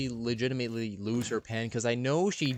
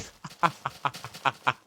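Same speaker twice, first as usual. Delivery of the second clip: squeaky laugh; 3 semitones higher than usual. Shown as a demonstration. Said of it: "with, like, a little squeaker voice".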